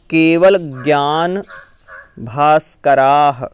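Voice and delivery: measured chant of a Jain prayer verse; recited Sanskrit verse. Shown as a demonstration. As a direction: recite each word slowly and clearly.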